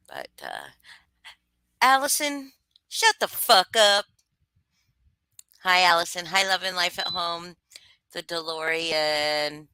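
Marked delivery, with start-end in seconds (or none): 1.8-4.0 mock yell. Joking greeting yelled at chatter.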